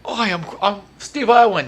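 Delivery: a light Australian impression of Steve Irwin; Australian accent. Retelling his childhood Steve Irwin joke, light Australian accent. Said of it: "in that same voice".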